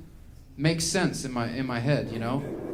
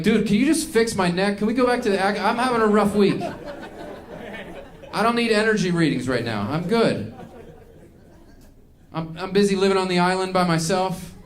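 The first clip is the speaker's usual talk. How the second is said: exasperated; 4 semitones higher than usual. Retold or imitated. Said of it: "I'm like".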